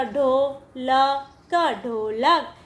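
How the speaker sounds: ढोलक drawn out slowly, syllable by syllable; slow blending. Shown as a demonstration. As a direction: stretch out क, ढोलक for children to follow. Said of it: "ड पे ओ की मात्रा". (ढोलक को धीरे-धीरे जोड़कर बोलें)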